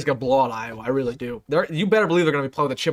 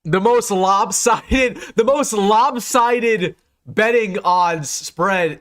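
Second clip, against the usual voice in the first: stunned disbelief; 4 semitones higher, much slower than usual. Real, not acted. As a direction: let each word sink in as the shock hits. Shocked at the betting odds.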